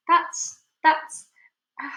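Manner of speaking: loud, high stammered start; stammering shock. Acted. Aunt unable to believe the peach, loud stammer. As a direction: sputter in disbelief. Speechless at the miracle.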